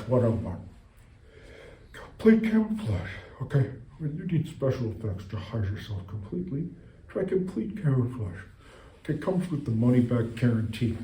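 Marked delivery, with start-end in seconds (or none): 4.0-11.0 hushed ad pitch. Pretend. Fake product ad.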